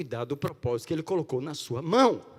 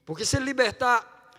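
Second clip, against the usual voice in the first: loud, high, fervent preaching cry; rising fervent sermon shout; preaching at full force; 11 semitones higher, 12 dB louder than usual. Real, not acted. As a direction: preach it out at the top of your voice. Preacher building to a climax.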